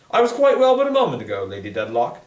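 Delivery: put-on a flustered girl answering quickly; startled Esther.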